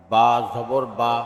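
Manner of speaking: final "বা" cut short; quick short vowel. Shown as a demonstration. Teacher demonstrating normal jabar, short "বা". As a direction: keep the last "বা" brief, not held. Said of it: "তাড়াতাড়ি করতে হয়".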